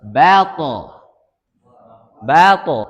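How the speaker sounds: to with tongue on upper teeth; sukun demo. Shown as a demonstration. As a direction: say Bato with a firm t. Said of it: "Seperti itu". (contoh: Bato)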